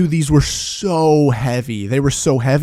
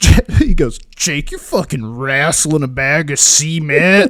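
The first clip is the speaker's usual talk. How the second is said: harsh, slow, strained, throat-shredding berating voice. Retelling what a man said while he lifted a bag of cement, imitating a throat-straining voice. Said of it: "this is going to hurt my throat so bad doing this voice".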